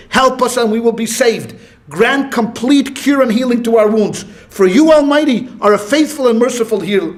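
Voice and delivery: measured, emphatic prayer reading; recited prayer from a prayer book; prayer read aloud. Shown as a demonstration. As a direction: read the prayer out evenly and deliberately. Reads a prayer aloud from the Siddur.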